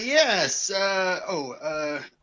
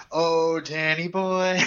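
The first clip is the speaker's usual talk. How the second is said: breathy vintage purr; 2 semitones lower, 3 dB louder, much slower than usual. Acted. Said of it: "and I'll also say".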